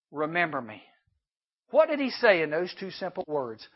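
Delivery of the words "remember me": soft, low plea; quiet plea. Acted. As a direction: ask softly, looking at him. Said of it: "gets the gaze going and says".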